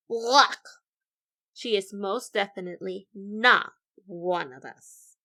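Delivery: loud, slow, indignant bird voice; loud mock outrage at the newcomer; indignant outburst. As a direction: bellow it like offended nerds. Nerdy birdies rejecting Vulture.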